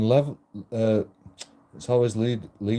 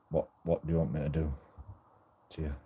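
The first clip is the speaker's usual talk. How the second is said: soft seductive ask; 5 semitones lower, 8 dB quieter, much faster than usual.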